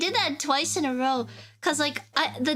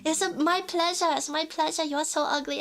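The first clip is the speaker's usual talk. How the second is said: mock Nordic person; 3 semitones higher than usual. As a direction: play a smiling Nordic stranger insulting you sweetly. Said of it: "they'll be like".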